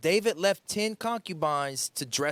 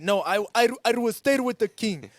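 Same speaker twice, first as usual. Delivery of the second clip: loyal general voice; 4 semitones higher, 6 dB louder than usual. Retold or imitated. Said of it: "And she was like".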